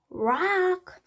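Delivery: high, far raven croak. A narrator's reading. Raven croaking its own name to Annie. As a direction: croak it out like a bird. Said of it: "the raven croaked".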